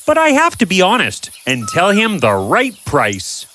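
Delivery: honest Vincent refusing. Acted. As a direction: stand firm on honesty.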